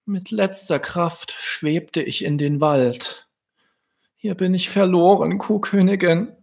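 very high cooing bird voice; high little dove telling its tale. Acted. Dove tells its story.

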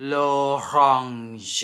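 L'orange slow, the round o and nasal an; model for repeating. Shown as a demonstration. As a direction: say L'orange for learners to copy. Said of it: "ลองฝึกออกเสียงตามกับพี่ตีนะคะ แล้วก็ดูรูปปาก".

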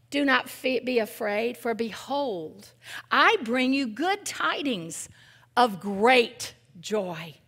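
slow, solemn scripture read; slow reverent reading of Luke. Acted. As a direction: proclaim it slowly like the angel. Reads the Christmas angel verse.

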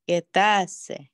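"Quedarse" repeated with stress on "da"; 重音在大. Shown as a demonstration. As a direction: put the weight on "da" in "Quedarse". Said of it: "对，在大". (跟读“Quedarse”，重音放在da上)

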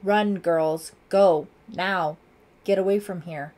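loud, urgent commands; shouted. A narrator's reading. Lieutenant sends the girls running, urgent shout. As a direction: shout at them to flee. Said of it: "he shouted".

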